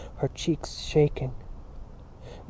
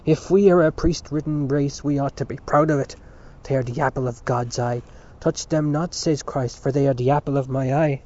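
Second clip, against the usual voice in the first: angry; 3 dB louder than usual. Acted. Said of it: "Dante broke in angrily".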